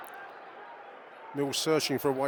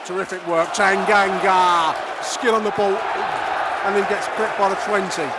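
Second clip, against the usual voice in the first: excited play-by-play; 5 semitones higher, 8 dB louder than usual. Real, not acted. Fan radio commentator calling a great tackle to listeners, loud and excited. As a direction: call the big tackle and roar the player's name.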